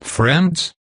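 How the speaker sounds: high parrot squawk on a rising question; a bird testing a new word, up high. Acted. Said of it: "the bird squawked".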